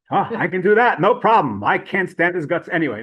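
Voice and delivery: playful acted eagerness with a laugh; eager agreement. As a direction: jump at the job, lightly acted. Eager assistant accepts task to irritate.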